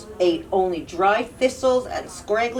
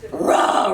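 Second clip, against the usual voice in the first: troll roar. Acted. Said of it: "roared the troll".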